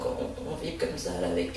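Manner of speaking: soft breathy shaking; shaken, half-voiced words; vibrating. Shown as a demonstration. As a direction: shake the body as you speak. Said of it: "on va juste vibrer un peu son corps".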